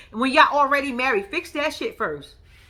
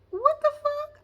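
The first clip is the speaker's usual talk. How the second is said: high, incredulous outburst; stunned what the fuck; slower than usual. Retold or imitated. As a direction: sound totally thrown. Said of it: "I'm like".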